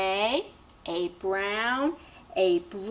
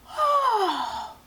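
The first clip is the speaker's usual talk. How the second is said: high, falling waking-up "oh"; waking yawn; 9 semitones higher than usual. A narrator's reading. Storyteller voices the peddler waking up, sighing "oh".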